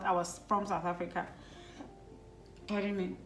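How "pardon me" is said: ordinary delivery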